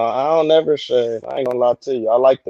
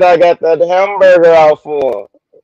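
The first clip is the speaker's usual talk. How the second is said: quoting a viewer; 4 semitones higher, 6 dB louder than usual. Retold or imitated. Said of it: "She said".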